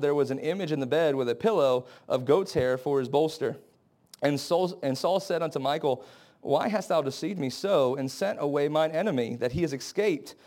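low, measured Bible reading; scripture reading. Acted. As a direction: read the verses out soberly, a little low. Reads scripture aloud.

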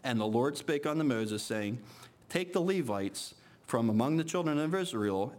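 measured, solemn Bible reading voice; scripture reading. Acted. Preacher reading Leviticus-style passage to congregation, solemn and measured. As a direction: read the passage out to the congregation with weight. Reads scripture aloud in church.

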